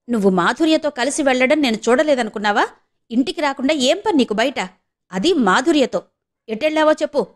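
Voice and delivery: understated angry interrogation; angrier scolding. Acted. Brother confronts sister about going out with Madhurya, mildly angry. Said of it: "అన్నాడింకా కోపంగా".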